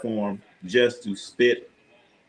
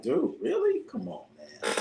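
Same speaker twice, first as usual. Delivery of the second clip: exasperated disbelief; 8 semitones higher, 6 dB quieter than usual. Retold or imitated. Retold reaction to Perkins' take.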